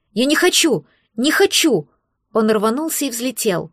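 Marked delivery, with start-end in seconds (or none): 0.1-1.9 higher, mildly petulant refusal; lightly voiced protesting little creature; childish protest. A narrator's reading. Little dragon refuses to leave with his human, mild protest.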